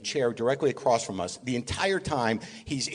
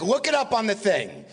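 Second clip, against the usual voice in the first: high-pitched mock impatience; lightly imitated exasperated order; Mel Brooks; 7 semitones higher than usual. Mel ordering his assistant to look it up, mock impatience. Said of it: "He's like".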